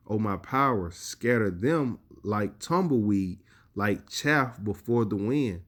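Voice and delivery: slow, weighty verse reading; scripture reading. Acted. Preacher reading the verse to listeners, slow and weighty. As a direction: lay every line down slowly and deliberately.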